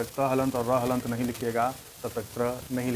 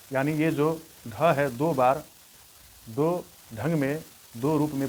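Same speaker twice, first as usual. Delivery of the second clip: slow emphasis; 3 dB louder than usual. Shown as a demonstration. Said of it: "teacher stressing key point".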